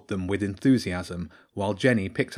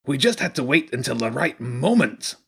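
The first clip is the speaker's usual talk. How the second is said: raised, sing-song rat voice; Zen; 4 semitones higher than usual. Acted. Rat makes excuse to unconvinced girl, raised character voice.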